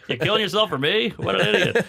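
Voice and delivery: high, loud scornful Romeo; mocking Romeo. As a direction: sneer at Juliet's sacrifice. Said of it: "Juliet, you whore".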